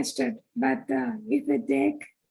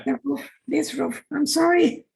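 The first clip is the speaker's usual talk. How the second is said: rough, hoarse speaking voice; 4 dB louder than usual. Real, not acted. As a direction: talk through a sore, hoarse throat. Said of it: "I have a hoarse voice".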